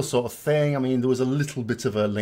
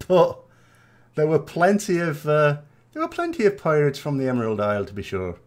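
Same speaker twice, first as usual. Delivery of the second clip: lightly hammed-up Irish accent; mock Irish accent; 4 semitones higher than usual. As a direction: put on a jokey Irish lilt. Jokey Irish pirate after accent remark.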